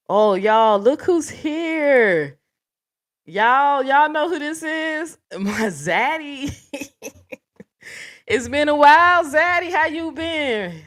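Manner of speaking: high, drawn-out delighted welcome; flirty excited greeting. Real, not acted. Host greets a favourite viewer who just showed up, high and flirty.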